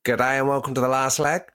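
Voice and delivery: light Australian host intro, rising at the end; Adam Hills impression. Imitating the Last Leg host opening, light Aussie accent. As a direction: open the show like a cheery Aussie presenter. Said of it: "I'm Adam Hills".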